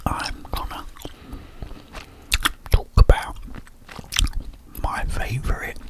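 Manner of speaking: whispering while chewing gum. Real, not acted. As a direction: talk around a mouthful of gum. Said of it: "I'm gonna bung a few of these in my gob".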